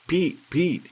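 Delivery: high, loud hysterical call; panicked shout. Acted. Druggist screaming for his frozen soda jerk in high panic. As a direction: yell his name in sheer panic. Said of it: "he shouted".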